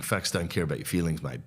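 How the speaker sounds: a hint of smug repetition; mocking quote. Comedian parroting a podcast bro's slogan, lightly mocking. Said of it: "started saying Charlie Kirk thing".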